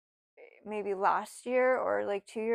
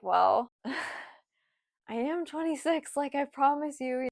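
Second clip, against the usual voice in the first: laughing protest; 4 semitones higher, slower than usual. Retold or imitated. She insists she is 26.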